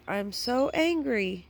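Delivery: real exasperation; frustrated. Real, not acted. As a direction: lean into "angry" with a falling groan of frustration.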